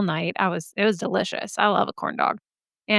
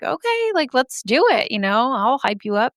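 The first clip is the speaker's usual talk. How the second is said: excited hype; 3 semitones higher than usual. Retold or imitated. Hyping up her daughter.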